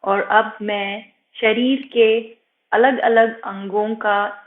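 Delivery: slightly softened meditation voice with long pauses; guided meditation. Acted. Yoga teacher guiding students' attention from toes upward, calm meditation voice. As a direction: guide attention gently through the body, unhurried.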